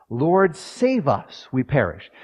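slow, high pleading cry of Lord; desperate cry. Acted. Preacher voicing disciples begging Jesus, desperate high cry. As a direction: stretch Lord and save out, high and urgent.

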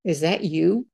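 surprised daughter. Retold or imitated. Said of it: "she looks at me and she says".

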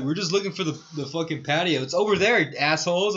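hammed-up irritated boss; mock annoyed manager. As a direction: dismiss them like an annoyed manager. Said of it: "he was like".

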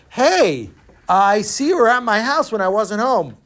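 high, loud greeting across a market; calling out. Acted. Man spotting his visitor in the marketplace, calling out. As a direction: hail him high and loud.

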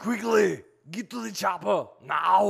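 loud, high, urgent action hero yell; movie catchphrase impression. Shown as a demonstration. Coach demonstrating a film line to a rusty friend, yelled impression. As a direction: bellow it like an action star. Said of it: "you gotta do a little".

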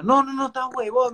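a hint of a suspicious girlfriend. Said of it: "me dice".

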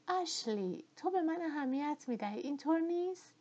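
anxious Scarlett. A narrator's reading. Scarlett pressing Ashley whether he cares, rising anxious plea. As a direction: press him for an answer.

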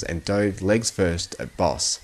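plain reading voice

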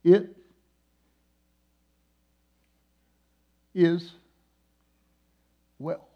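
slow, weighty, each word set apart; a booming then fading voice of God; God's voice. Retold or imitated. Preacher voicing God's three words, slow and solemn. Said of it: "I heard God speak these three words to me".

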